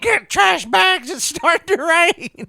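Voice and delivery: high, loud, slowed panic call; panicked yelling. Pretend. Friend playing rain panic at midnight, mock shout.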